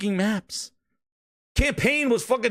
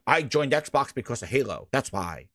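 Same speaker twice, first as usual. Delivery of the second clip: mock quote; 9 semitones lower, 3 dB quieter than usual. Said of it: "they're like".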